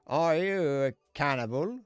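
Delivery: slow, loud cheesy come-on; hammed-up pickup line. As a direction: deliver it as an over-the-top flirt. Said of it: "Doesn't really work".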